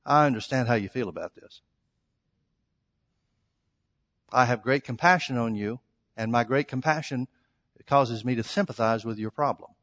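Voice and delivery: low, soothing imitation of a sympathizer; mock sympathy. Mock version of a sympathizing Jesus.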